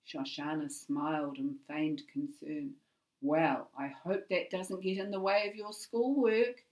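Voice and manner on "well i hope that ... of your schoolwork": glibly. A narrator's reading. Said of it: "Shoshana said glibly".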